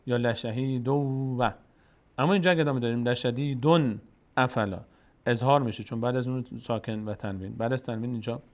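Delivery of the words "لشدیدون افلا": reading chanted with the nunation joined; linked recitation. Shown as a demonstration. Teacher showing the student the connected reading. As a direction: carry the tanween into the next word. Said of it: "shows the joined reading".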